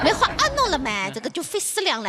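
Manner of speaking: put-on playful recital in Jiangzhe accent. Co-host joining the mock recital, Jiangzhe accent. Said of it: "江浙地方的朋友来朗诵".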